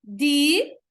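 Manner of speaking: "Direis" broken into di ... reis; split into syllables. Shown as a demonstration. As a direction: say "Direis" as two syllables with a long pause between. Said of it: "Como é que eu separo direis".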